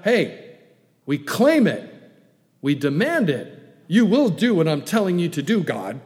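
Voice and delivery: lightly imitating someone ordering God around; mock demanding. Believers ordering God like a servant, mock demand. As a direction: punch it like a pushy demand. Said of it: "they order God around".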